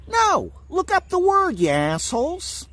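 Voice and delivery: high, sharp outburst of rage; angry shout. Real, not acted. Ranting at the people who misread him, furious shout. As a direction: yell it at them in real fury.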